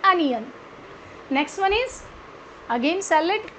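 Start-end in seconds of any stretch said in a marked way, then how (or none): 0.1-0.4 Onion as "UH-nyun", falling; correct pronunciation. Shown as a demonstration. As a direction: begin Onion with "uh", never "oh". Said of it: "आज के बाद क्या pronounce". (Onion को "अनियन" बोलें)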